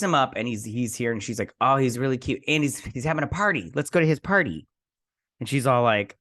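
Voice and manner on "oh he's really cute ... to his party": excited friend. Retold or imitated. Sarah pushes Nat to go to his party, excitedly. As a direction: play an eager friend, voice lifting.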